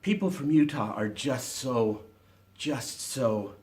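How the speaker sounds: lightly voiced saintly Utahn, mock-sweet; a hint of a dreamy, saintly Utahn; gentle mock-saintly drift, barely put on; Utah impression. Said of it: "he began to impersonate Utahns".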